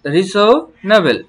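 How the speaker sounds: রিসোনাবেল drawn out syllable by syllable; slow teacher demo; slow model word. Shown as a demonstration. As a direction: lay out each syllable for learners. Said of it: "teacher models the word".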